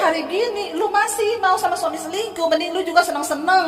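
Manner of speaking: hammed-up gossip; mock gossipy friend. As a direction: scoff like a bad friend egging her on. Mock bad counselor advice.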